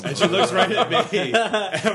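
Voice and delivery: can't stop laughing while telling it. Real, not acted. Recalling the funny moment, laughing.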